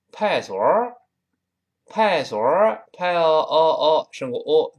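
loud Tianjin 派所儿, nasal slur; Tianjin accent. Retold or imitated. 天津口音，大声. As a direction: bellow it like a Tianjin local. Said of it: "天津人说".

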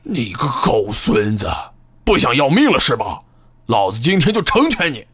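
harsh, fast yelled threat; loud cursing. Acted. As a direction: curse him out loud. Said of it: "大声骂道".

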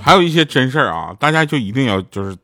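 normal talking voice

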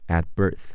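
"at birth" with the t of at held, not released; unreleased t. Shown as a demonstration. English teacher demonstrates a phrase, swallowing the t in "at birth". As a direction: stop the t in "at" silently, then say birth. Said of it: "at的t要失去爆破，不读出来".

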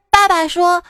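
lightly voiced child making a serious protest; solemn child. Small pupil challenging the teacher, solemn earnest child voice. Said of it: "一个小朋友特别慎重其事地说".

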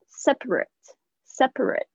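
"Separate" with a light short ending; adjective separate. Shown as a demonstration. Teacher contrasting the adjective with the verb. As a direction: end "Separate" on a small it sound. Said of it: "不要念成separate".

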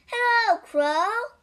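high, loud hail; shouted greeting. A narrator's reading. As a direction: shout up to a passing bird. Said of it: "shouted Toad".

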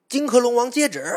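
high, loud herald's summons; proclaiming call. Acted. Heavenly guard summons the Dragon King from mid-air, loud proclaiming call.

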